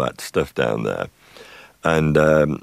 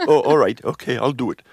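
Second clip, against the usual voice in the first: A singer; 7 semitones higher than usual. Retold or imitated. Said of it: "And he said".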